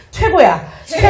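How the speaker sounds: bright cheer for the class; cheering demo. Shown as a demonstration. Instructor demonstrating the cheer to the audience, upbeat. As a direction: thumbs up and cheer it out. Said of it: "엄지손을 채우면서".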